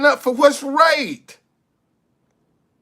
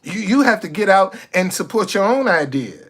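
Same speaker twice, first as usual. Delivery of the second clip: mock selfish person; 6 semitones lower than usual. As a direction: play the tightfisted guy who won't help, with sarcasm. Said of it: "I'm telling you how people actually think".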